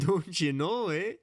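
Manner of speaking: high, loud hammed-up "don't you know, eh"; mock Canadian accent. Host mixes Wisconsin and Canadian in a mock Canadian accent. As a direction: overdo the Canadian singsong. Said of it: "Canadians say".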